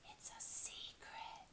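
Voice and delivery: slow, soft whispered secret. Acted. Owl whispering the secret to Teddy, slow whisper. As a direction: breathe it out like a secret. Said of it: "and whispered".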